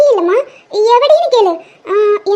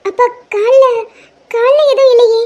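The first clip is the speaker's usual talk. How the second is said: nervous denial; 5 semitones higher than usual. Acted. Daughter caught, nervously denying.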